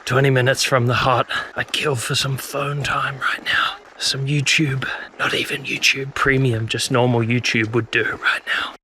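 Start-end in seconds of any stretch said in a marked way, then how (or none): 1.5-8.8 hushed whisper. Real, not acted. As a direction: whisper it softly. Whispering at the hut.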